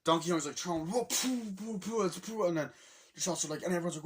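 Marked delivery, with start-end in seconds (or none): 0.9-2.5 high puffed explosion noises; rapid-fire cartoon impact noises; imitated barrel blasts. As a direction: mouth the sound effects of flying barrels. Imitates barrels being thrown.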